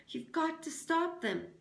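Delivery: high pressing urgent plea. A narrator's reading. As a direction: push him to act now. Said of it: "urged Catherine".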